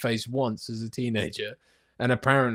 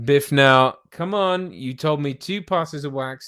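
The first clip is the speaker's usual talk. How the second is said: mild firm dad; 2 semitones higher, 4 dB louder, slower than usual. Retold or imitated. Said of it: "He's just like".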